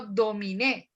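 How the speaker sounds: "dominé" stressed on NÉ; past-tense "dominé", weight on the final E; stress on last syllable. Shown as a demonstration. Teacher recalling the past-tense example, "dominé" stressed on NÉ. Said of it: "Como en el acento de".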